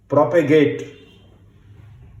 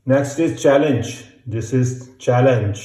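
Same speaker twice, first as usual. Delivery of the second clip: slow dictation; much slower than usual. Shown as a demonstration. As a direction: challenge dictated slowly and carefully. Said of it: "dictation teacher".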